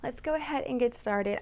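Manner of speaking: close-miked, intimate sound; right up on the microphone; too close to mic. Real, not acted. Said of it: "if I sound a little too close".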